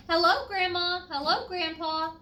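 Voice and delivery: loud, high happy calls; shouted greeting. Acted. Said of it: "the Comfort's daughter shouted".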